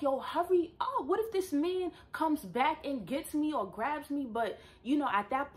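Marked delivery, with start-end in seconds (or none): 0.0-4.3 high-pitched retold alarm; mock panic. Woman urging bus to leave, mock panic. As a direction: act out urgent worry, voice pitched way up.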